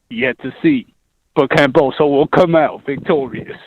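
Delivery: in-character radio prediction; lightly put-on announcer voice; radio announcer act. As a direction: announce it like a fight pundit on air. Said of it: "why are you talking like as if you're on the radio".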